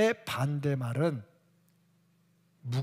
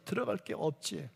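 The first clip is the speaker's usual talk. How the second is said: usual speaking voice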